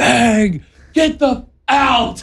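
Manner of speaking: put-on very high, long-held, drawn-out scream. Retelling cheering at a home run on the couch: imitating own screaming. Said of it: "I'm just screaming".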